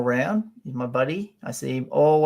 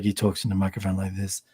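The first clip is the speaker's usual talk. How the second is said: lower, deep microphone voice; 5 semitones lower, 4 dB quieter than usual. Retold or imitated. Describing a reviewer at the microphone, low and deep. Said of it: "It's a very deep".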